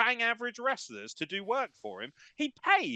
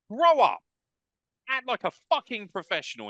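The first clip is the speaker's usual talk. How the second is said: louder, sharp scold; angry snap; 5 dB louder than usual. Real, not acted. Host scolding the owner, sharply louder. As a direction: tell him off hard.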